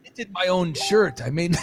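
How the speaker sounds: put-on low, soft, slow hipster teen voice; mock teen drawl. Teen answering about his accent, soft and slow. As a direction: lazily explain your own odd voice. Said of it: "what's that accent?".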